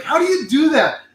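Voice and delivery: high whiny daughter voice; daughter mimic. Daughter annoyed at dad's voice, high whiny imitation. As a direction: mimic the daughter, pitched well up. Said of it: "she's like".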